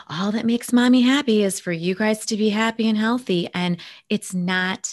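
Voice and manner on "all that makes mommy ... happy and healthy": imitating sweet mom. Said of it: "the words would come out of my mouth".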